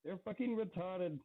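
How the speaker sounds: put-on Indian Irish accent. Player voicing the companion Braddock looking at the party, mild Indian Irish accent. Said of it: "That's quite the accent you gave him".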